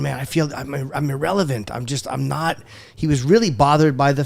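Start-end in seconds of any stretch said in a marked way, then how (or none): 0.0-2.6 quiet regretful quote. Retold or imitated. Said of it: "I remember him going".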